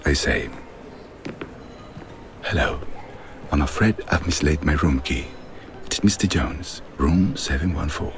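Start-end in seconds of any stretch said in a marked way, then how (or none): 2.4-8.1 a lightly put-on polite English accent, a little quieter; mild English accent, apologetic and proper. Con man at hotel reception, mild posh English accent. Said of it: "in my best English accent".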